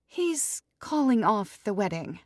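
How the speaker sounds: reluctant friend delivering bad news; Emily, grave. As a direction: say it carefully, slowly.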